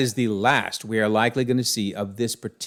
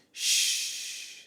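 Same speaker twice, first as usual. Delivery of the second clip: shushing; 10 dB quieter than usual. Pretend. Dream Queen hushes her father.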